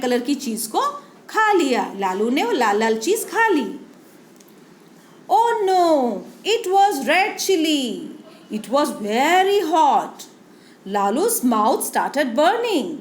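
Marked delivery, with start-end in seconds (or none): 5.3-8.0 dismayed oh no. Acted. Teacher reading dramatic story moment.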